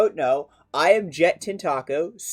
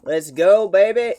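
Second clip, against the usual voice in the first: excited; 5 semitones higher, 7 dB louder than usual. Real, not acted. Hype cheer.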